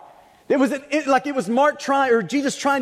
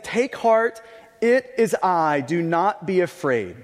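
tender; 4 semitones lower, slower than usual. Shown as a demonstration. Jesus calming the terrified disciples, tender and slow. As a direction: comfort frightened men gently. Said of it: "I love just the tenderness in this".

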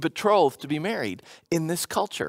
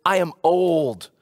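blunt and rude; 7 semitones lower than usual. Retold or imitated. Zechariah curtly tells the angel he's old, bluntly. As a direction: toss off the old age like an excuse to a messenger. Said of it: "the way he says it, it's very direct, it's rude".

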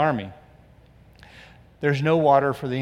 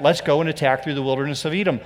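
mock eager plan, quick; 2 semitones lower, faster than usual. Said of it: "Remember when they said that?".

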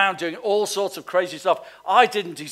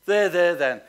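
sympathy voice; 4 dB louder than usual. Retold or imitated. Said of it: "Sympathy says".

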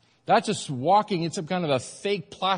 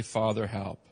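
soft prayer; 8 semitones lower, 6 dB quieter than usual. Shown as a demonstration. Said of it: "He's waiting for you to say".

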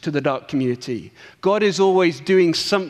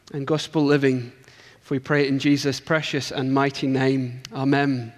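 prayer. Acted. Leads a short prayer.

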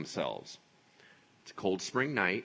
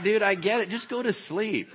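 exasperated reply; 10 semitones higher, 4 dB louder than usual. Acted. Annoyed listener answering the roosters.

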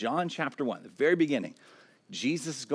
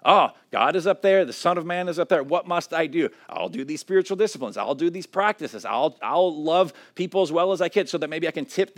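higher, louder, eager self-striving voice; striving believer; 4 semitones higher, 5 dB louder than usual. Retold or imitated. Preacher voicing a striving believer for the congregation, higher and louder. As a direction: sound like someone anxiously climbing to God. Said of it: "Tower of Babel kind of thinking".

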